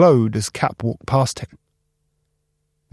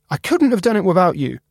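grateful Cap; 6 semitones higher, faster than usual. Acted. Cap thanking Spark.

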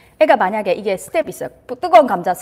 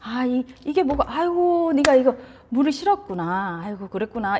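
gentle soothing mom; 4 dB quieter than usual. Shown as a demonstration. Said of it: "그러니까 얘".

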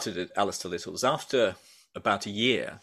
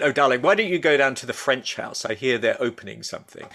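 lightly imitated breezy brush-off; dismissive; 4 dB louder than usual. Chef Jeremy Lee sending him to the French House, mildly dismissive. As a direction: toss it off like it hardly matters. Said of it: "very dismissively".

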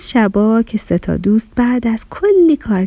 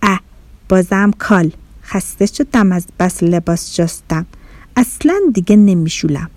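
frowning inner grumble; 3 semitones lower than usual. Acted. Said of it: "با اخم ... تو دلش گفت".

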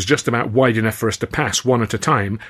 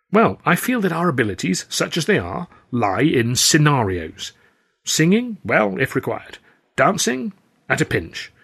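raised, bright showman voice; lively theatrical gent; 5 semitones higher than usual. Acted. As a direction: play an eager old-school comic. Stan's voice, pitched up throughout.

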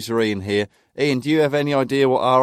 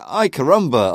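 louder mock-Spanish outburst; mock Spanish exclamation; 3 semitones higher, 6 dB louder than usual. Imagined Spaniard reads the paper, mock Spanish exclamation. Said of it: "reading the Spanish version of the".

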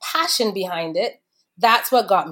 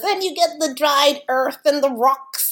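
sommelier voice; 6 semitones higher than usual. Retold or imitated. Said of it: "That's the sommelier voice".

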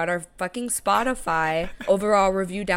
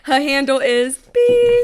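mock outraged shout; 4 semitones higher, 6 dB louder, slower than usual. Continuing the mock exposé.

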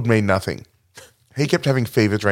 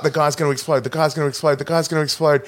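higher, repetitive mock warning; retold alarm; 4 semitones higher, faster than usual. Cops warn the guy will explode, mock alarm. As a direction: rattle off a mock panicked warning.

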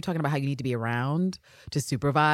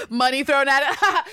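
high, loud, laughed-out words; mock laughing scoff; 11 semitones higher, 5 dB louder than usual. Imitating Anne scoffing at Washington, laughing. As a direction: repeat it through put-on laughter.

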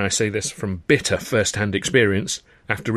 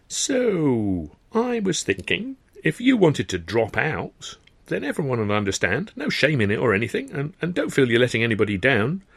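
falsely kind Sid; 2 semitones higher than usual. Acted. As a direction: sweet-talk him into quitting. Sid's fake-kind speech.

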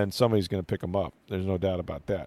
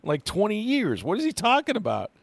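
mock-baffled, climbing much higher in pitch; incredulous; 4 semitones higher than usual. Radio host reacting to coach's dated bowl reference, incredulous. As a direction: play up the puzzled disbelief, rising to a high-pitched question.

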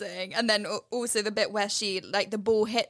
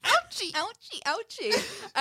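mock ouchie; 10 semitones higher than usual. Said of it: "mock pain after waxing joke".

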